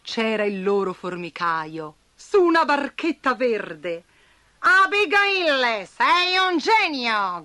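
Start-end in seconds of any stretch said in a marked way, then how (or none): 4.6-7.4 slow, loud cry of delight; joyful cry. Acted. Gambi cheers the spider, delighted. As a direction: praise her with joy. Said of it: "gridò Gambi".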